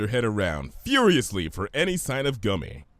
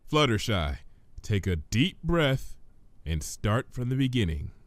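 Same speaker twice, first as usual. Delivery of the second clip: calm reassurance. Acted. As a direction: soothe her gently. Twilight calming.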